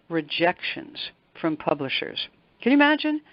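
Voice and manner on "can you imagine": amazed. Real, not acted. Guest marvels to host at sixty-five rejections, amazed. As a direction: let the number land in awe.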